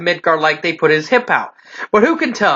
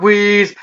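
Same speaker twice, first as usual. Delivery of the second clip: wheezing gasp; breathless wheeze sound; spoken wheeze. Acted. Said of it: "gasping for breath".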